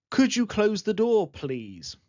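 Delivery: softened, courteous ask; teacher modelling the polite version; polite request. Shown as a demonstration. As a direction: make it a gentle request. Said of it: "write as polite requests".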